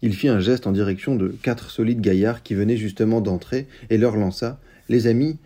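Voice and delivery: steady, measured storybook reading; story narration. A narrator's reading. A reviewer reading the novel's extract aloud, in a calm narration voice. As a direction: read the tale to the listeners.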